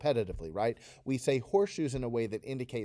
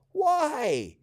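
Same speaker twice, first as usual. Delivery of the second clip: much higher, louder whiny why; whiny Taryn; 5 dB louder than usual. Shown as a demonstration. Teacher voicing Taryn whining about horseshoes. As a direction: whine it like a fed-up kid. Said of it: "So say that with me".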